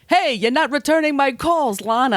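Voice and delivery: high-pitched mock indignation; irate boyfriend. Johnny confronting Lana in London, mock irate boyfriend. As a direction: confront her, voice pushed way up.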